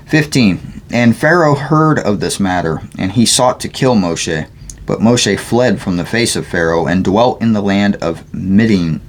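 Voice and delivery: measured, deliberate Bible reading; scripture read aloud. Real, not acted. Reader sharing scripture aloud, measured reading. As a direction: read the passage aloud clearly.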